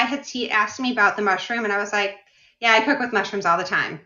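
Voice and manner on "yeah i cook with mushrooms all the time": lightly imitating a brushed-off, hurried reply; hurried attitude. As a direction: toss it off like you're in a rush. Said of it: "I just had that hurried attitude".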